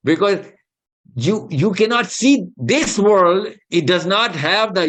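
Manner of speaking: drawn-out, deliberate English words; preaching slowly, word by word; slow emphasis. Real, not acted. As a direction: lay each word down slowly to drive it home. Preacher stresses point in English.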